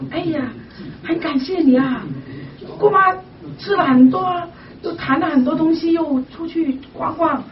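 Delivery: retold upbeat report. Aunt on the phone telling the caller she is better, upbeat. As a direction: lift the pitch as the aunt shares good news.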